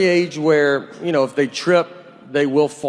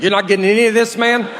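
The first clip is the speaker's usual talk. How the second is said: higher and a bit louder, exasperated; like fed-up eyes nagging the brain; 6 semitones higher, 3 dB louder, faster than usual. Pretend. His eyes scolding his brain.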